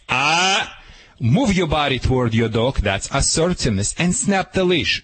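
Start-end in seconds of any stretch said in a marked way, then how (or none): 0.1-0.8 quick disapproving "Ah!", a bit higher; sharp yell. Shown as a demonstration. Trainer demonstrating disapproval to a puppy, sharp yell. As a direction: snap out a short "Ah!".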